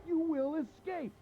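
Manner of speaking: rising taunt. Acted. Captor's tone rises high.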